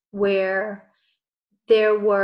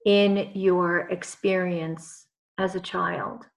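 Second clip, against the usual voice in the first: guided meditation. Acted. Leads a guided visualization.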